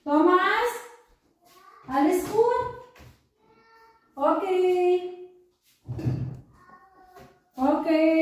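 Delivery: high-pitched caregiver singsong. Real, not acted. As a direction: answer a little one in a high lilt. Calling and answering the child.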